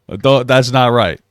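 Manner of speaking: loud, slowed protest; stunned and loud. Real, not acted. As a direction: push back hard in disbelief. Shocked at the insult.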